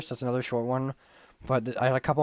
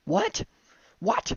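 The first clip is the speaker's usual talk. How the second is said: surprised; 11 semitones higher than usual. Real, not acted. Stunned by the reveal.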